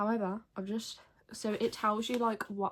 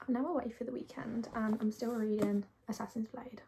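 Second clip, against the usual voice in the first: whispering. Real, not acted. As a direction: keep it hushed, whispering. Whispers while away for weekend.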